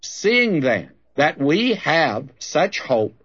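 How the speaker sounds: slow, emphatic Bible reading; preacher's drawn-out, stressed verse reading; Scripture reading. Real, not acted. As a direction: read it out deliberately to a congregation. Reads Scripture aloud to congregation.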